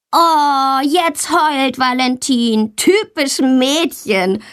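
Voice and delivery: put-on high, slow jeering child's voice; mocking taunt. Boy Tommy jeers at crying Valentina, slow and mocking. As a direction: drag it out to humiliate her. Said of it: "ruft Tommy".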